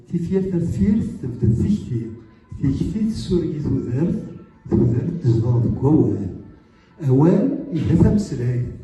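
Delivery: measured chained phrases, lifting each repeated link word; poem recitation. Acted. Poet performing their Kabyle poem for the audience, measured recitation. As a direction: recite it phrase by phrase, with short pauses.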